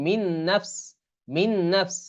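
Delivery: মিন নাফস joined on a held nasal n; idgham into nun. Shown as a demonstration. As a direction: linger on the n of মিন before নাফস. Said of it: "ইদগাম করে পড়তে হয়".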